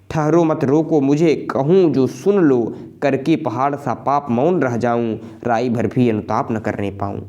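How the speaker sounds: measured verse, urgent at the start; poem recitation. Acted. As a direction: read the plea as verse.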